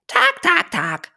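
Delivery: chirpy, very high and loud "Tag"; cheerful chattering bird. Acted. Bird greeting the elephant upside down, high chirpy chatter. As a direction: chatter like a delighted little bird. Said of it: "plapperte der Vogel vergnügt".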